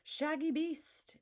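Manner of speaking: a wolverine growling for help; growled greeting. A narrator's reading. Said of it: "it growled".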